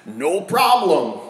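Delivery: slow, offhand shrug of a reply; easygoing disciples brushing off an easy command; casual no problem. Retold or imitated. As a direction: toss it off like it's nothing. Disciples voiced answering easily.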